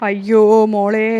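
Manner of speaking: drawn-out loud lament; slow wail. Acted. Mother lamenting to her daughter, slow loud wail. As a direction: stretch the cry out, grieving.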